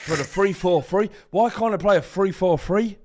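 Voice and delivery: put-on high, loud, botched Australian accent, fri for three; hammed-up Australian accent that falls apart; bad Australian accent. Mimicking the Australian manager in a failed Australian accent. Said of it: "that doesn't sound anything like".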